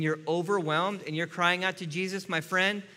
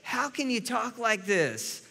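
judgmental scolding; 5 semitones higher than usual. Retold or imitated. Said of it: "we can say".

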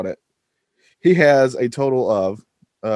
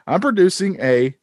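put-on Australian accent; 6 semitones higher than usual. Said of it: "I'm reading this word for word".

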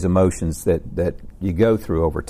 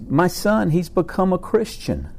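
a much higher, slower comic voice calling to his friend; high-pitched joke voice; 8 semitones higher, slower than usual. Acted. Abraham calls to his friend Caleb, high comic voice. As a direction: pitch it way up like an eager old friend.

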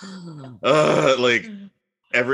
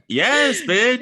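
much higher and louder hype shout; excited cheer; 13 semitones higher, 4 dB louder than usual. Real, not acted. Cheering on street fight idea.

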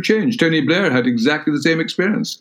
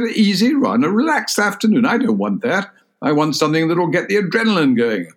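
higher-pitched, mildly indignant retort; Margaret Thatcher; 5 semitones higher than usual. Retold or imitated. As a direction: imitate her rejecting the easy option. Retold scornful reply to colleague.

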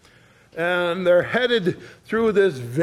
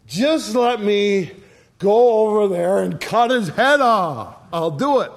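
eager warrior; 3 semitones higher than usual. Acted. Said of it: "he says to David".

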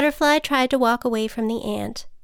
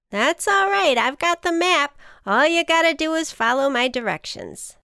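high, perky ant taking charge; rally a nervous friend, pitch up; confident ant; 6 semitones higher, 4 dB louder than usual. A narrator's reading. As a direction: chipper reassurance. Voices the ant reassuring.

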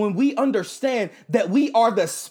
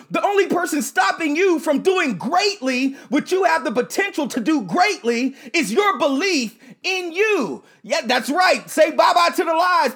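booming motivational speech; 3 semitones higher than usual. Acted. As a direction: boom it out to the crowd. Motivational speaker builds to shouting.

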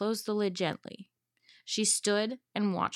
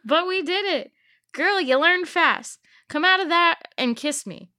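much higher, louder swaggering pirate-captain voice; gloating villain; 9 semitones higher, 7 dB louder than usual. Acted. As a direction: crow it like a cocky pirate captain. Loki voiced, gloating to Caffrey.

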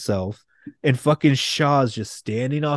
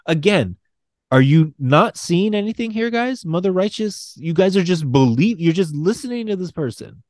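higher, pressing disbelief; exasperated rant; 4 semitones higher than usual. Real, not acted. Fan yelling at the characters for trusting Rasputin, exasperated.

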